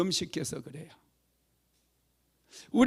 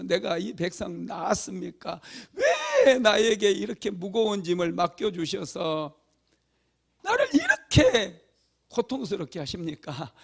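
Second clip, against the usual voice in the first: pleading lament. Retold or imitated. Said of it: "원망하니까".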